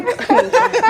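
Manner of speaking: high real laugh; sudden amused laugh; burst of laughter. Real, not acted. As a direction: laugh out before going on. Bursts out laughing mid-story.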